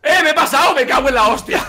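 laughing curse. Real, not acted. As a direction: swear while laughing at the blunder.

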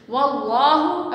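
"वल्लाहु" slowly with a thick, heavy l; heavy lam. Shown as a demonstration. Teacher modelling Allah's name for students, thick l in "वल्लाहु". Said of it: "मोटा पढ़ा जाएगा".

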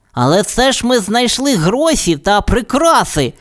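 high, light bird voice; canary voice. Acted. Tweety reminds the cat they found money and jewels, high and light. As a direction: cheer him up.

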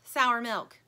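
loud, insistent counter; arguing toy. A narrator's reading. One toy argues back over a smell, insistent. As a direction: contradict firmly and loudly. Bickering toys contradict each other.

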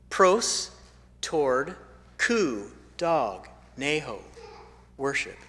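Pros, toward, ku, dog, neho, worship, each part set apart with pauses; word broken down. Shown as a demonstration. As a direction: split proskuneho into its parts. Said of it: "it means to worship".

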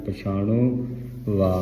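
ਪਛਾਣੋ slow and complete, ਵਾ apart; full pronunciation. Shown as a demonstration. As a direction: sound the final o of ਪਛਾਣੋ before a separate ਵਾ. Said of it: "ਇਹ ਛੱਛੇ ਦੇ ਨਾਲ ਲਾ ਕੇ". (ਪਛਾਣੋ ਪੂਰਾ ਬੋਲ ਕੇ ਵਾ ਵੱਖਰਾ)

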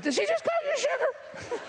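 high, laughing mock outrage; jealous wife. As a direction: squeak it like a wife who can't believe her ears. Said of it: "And that wife said".

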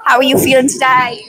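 playful interviewer voice; host a pretend TV interview; mock reporter. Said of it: "mock interviewer repeats".

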